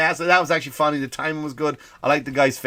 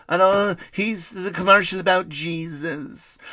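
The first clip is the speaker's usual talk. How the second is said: slow, drawn-out mock whining; mock complaint; 3 semitones higher, slower than usual. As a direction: imitate an offended complainer, dragging it out. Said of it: "when someone goes".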